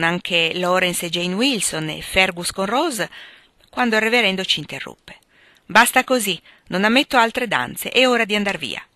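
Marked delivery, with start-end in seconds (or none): 5.6-8.8 firm, louder order to stop; stern interruption. Acted. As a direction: cut in like a stern reverend. Reverend interrupts and ends the dancing.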